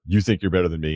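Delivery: put-on thick Boston accent. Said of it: "in thick Boston accent".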